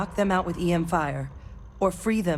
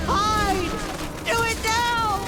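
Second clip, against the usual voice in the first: urgent shout; much slower than usual. Acted. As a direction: push them to hide now. Creature arrives.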